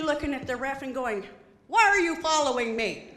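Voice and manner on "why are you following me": paranoid question. Retold or imitated. Paranoid player to ref.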